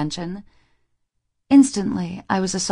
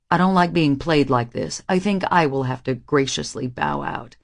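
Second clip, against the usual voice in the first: lightly lowered male voice; a hint of a deeper male voice; Reese; 4 semitones lower than usual. A narrator's reading. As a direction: read the young man's lines a bit deeper.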